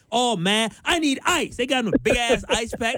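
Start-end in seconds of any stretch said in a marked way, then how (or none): 0.1-1.6 high whiny mock complaint; whiny imitation. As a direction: imitate a wimpy victim. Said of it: "cussing on air".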